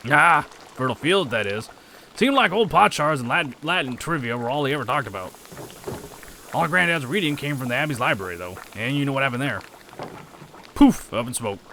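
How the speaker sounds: lightly put-on rustic accent; accented townsperson. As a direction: gossip about granddad in an accented character voice.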